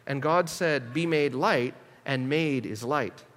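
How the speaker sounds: measured, solemn reading of archaic scripture; old-fashioned Bible reading aloud. Shown as a demonstration. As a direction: read it like an old manuscript, with weight. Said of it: "just listen so you can hear the difference".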